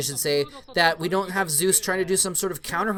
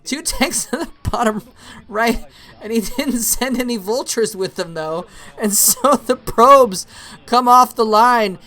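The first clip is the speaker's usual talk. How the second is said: raised pitch, lively match commentary; animated play-by-play; 6 semitones higher, 8 dB louder than usual. Real, not acted. Caster calling tanks hitting the probes, animated play-by-play. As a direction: punch out the action as it unfolds. Live play-by-play of tank attack.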